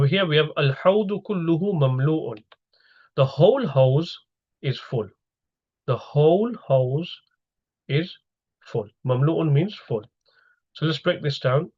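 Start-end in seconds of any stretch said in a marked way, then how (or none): 3.1-5.1 "whole" stretched slowly and raised in pitch; stress on whole. Shown as a demonstration. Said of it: "consists of emphasis". 5.9-8.9 "whole" drawn out, with pauses before "is" and "full"; stress on whole. Shown as a demonstration. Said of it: "consists of emphasis".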